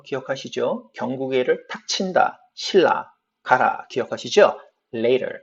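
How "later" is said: 'Later' with the t flapped like a light r; tapped t in Later. Shown as a demonstration. Teacher recalling the rule, flapped t in 'Later'. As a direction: tap the middle of 'Later', lei-rer. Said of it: "르 발음으로 단타마가 되는데".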